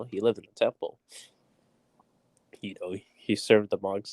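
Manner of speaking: muffled voice, hand over mouth. Real, not acted. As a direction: talk muffled as if through a hand. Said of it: "sorry if I sound a little, like, muffled".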